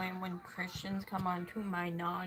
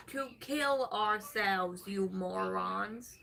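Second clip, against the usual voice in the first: slow exasperated emphasis; 6 dB louder, slower than usual. Real, not acted. Exasperated point to chat.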